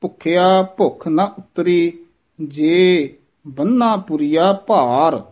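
measured recital with weight on ਬੰਨਾ; slightly heavy ਬੰਨਾ. Shown as a demonstration. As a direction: pause after ਜੇ, then a heavier ਬੰਨਾ. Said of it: "ਥੋੜ੍ਹਾ ਜਿਹਾ ਭਾਰਾ ਬੋਲਣਾ ਹੈ".

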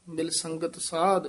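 short stop after ਸਾਧ; pause after ਸਾਧ. Shown as a demonstration. Teacher shows a ਠਮਕ after ਸਾਧ. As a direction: break lightly after ਮਿਲ ਸੰਗਤ ਸਾਧ. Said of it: "ਇੱਥੇ ਠਮਕ".

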